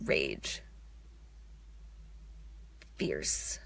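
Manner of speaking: very low, quiet growl of the word; growled rage. Real, not acted. To herself, feeling her rage: a very low quiet growl. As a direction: let the rage rumble up from deep in the chest. Releasing rage in a guided moment.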